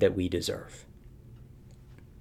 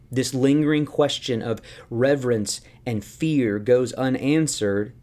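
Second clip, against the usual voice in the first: ordinary talk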